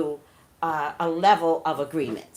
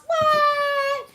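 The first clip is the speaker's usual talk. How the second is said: much higher and louder stunned cry; shocked what; 5 dB louder than usual. Acted. Reacting to the running-mate announcement, a much higher, louder yelp of shock. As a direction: yelp of disbelief, hit it hard.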